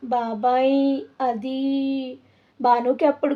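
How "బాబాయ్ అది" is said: put-on small scared child voice, trailing off; timid and soft. A narrator's reading. Frightened girl answering her angry uncle, timid and soft. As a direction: barely get the words out, afraid. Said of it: "భయపడుతూ మెల్లగా".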